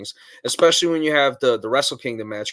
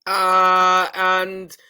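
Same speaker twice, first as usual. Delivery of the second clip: high, drawn-out English accent impression; Billy Body; 6 semitones higher, 4 dB louder, much slower than usual. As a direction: imitate an English wrestling newsman, slowly and higher-pitched. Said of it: "you can do Billy Body better".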